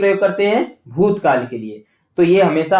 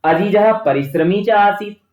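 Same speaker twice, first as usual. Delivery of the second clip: model answer; slower than usual. Shown as a demonstration. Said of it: "बच्चे उत्तर देंगे".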